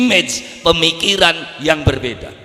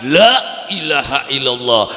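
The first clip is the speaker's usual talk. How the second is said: a fed-up mother's weary la ilaha illallah; exasperated sigh; 2 semitones lower than usual. Shown as a demonstration. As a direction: sigh it out like a wife at her wits' end. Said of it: "diucapkan ning wong wadon, lakine beli teka-teka, anake ngamuk".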